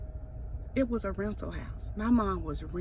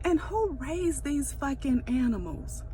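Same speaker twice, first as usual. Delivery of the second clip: swearing tirade; 5 semitones higher than usual. Real, not acted. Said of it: "I'm ranting".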